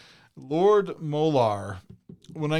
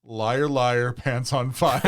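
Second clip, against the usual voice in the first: mock serious; 4 dB louder, much slower than usual. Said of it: "straight-faced and professionally as possible".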